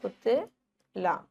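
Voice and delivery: पुतला spelled out slowly syllable by syllable; slow syllable demo. Shown as a demonstration. Teacher sounding out पुतला for the children. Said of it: "छोटा ऊ".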